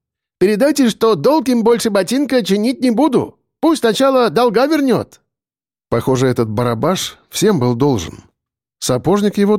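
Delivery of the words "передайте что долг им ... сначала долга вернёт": high, broken-Russian trader voice; Asian trader voice. A narrator's reading. The trader sends a message to the debtor, high and accented. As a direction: play a grinning Asian trader, pitched up. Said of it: "продолжил Джеки Чан".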